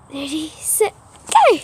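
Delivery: excited start call. Real, not acted. Starting a game, go shouted.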